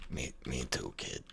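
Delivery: deep gravelly action-hero line; tough movie voice. Shown as a demonstration. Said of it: "could be a good soundboard clip".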